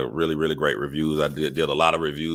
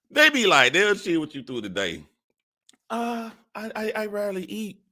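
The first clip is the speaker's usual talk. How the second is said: mocking women's excuse. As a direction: mimic her fake innocence. Imitating women denying.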